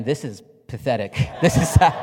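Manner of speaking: scoffing judgment breaking into a laugh; mock scornful listener, laughing. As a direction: laugh through a mock put-down. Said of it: "fine line between".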